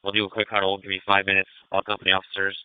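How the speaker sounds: crackly two-way radio; police radio. Real, not acted. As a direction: call units over the radio. Commander calling units over radio.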